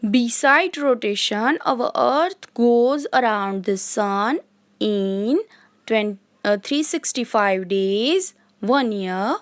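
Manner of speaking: very slow, spaced-out reading of a definition; dictation. Shown as a demonstration. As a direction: dictate each phrase so the class can write it. Teacher dictating English notes. (बहुत धीमे, रुक-रुक कर लिखवाना)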